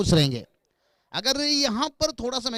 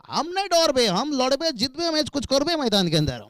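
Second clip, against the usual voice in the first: put-on Hindi with a light Bengali accent; lightly put-on Bengali-accented Hindi; 4 semitones higher than usual. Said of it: "बता रहे हैं बंगाली अंदाज में".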